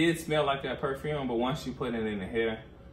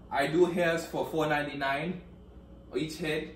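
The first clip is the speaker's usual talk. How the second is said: mock French salesman accent; El Dario; 3 semitones higher than usual. French hair maker advertising a price, mock French accent. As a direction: pitch it in a put-on French accent. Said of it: "the accent for me French hair maker".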